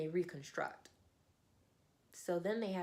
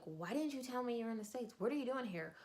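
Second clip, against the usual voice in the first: higher-pitched acted concern; really concerned friend; 6 semitones higher, faster than usual. Friend questioning a surprise visitor, concerned. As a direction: fuss over a friend in a raised pitch. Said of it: "like, really concerned for his friend".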